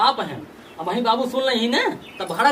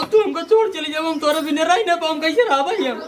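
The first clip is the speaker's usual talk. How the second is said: higher-pitched husband's plea; distressed pleading; 4 semitones higher than usual. Acted. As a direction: beg her not to walk out. Husband begs wife not to leave. (गिड़गिड़ाते हुए)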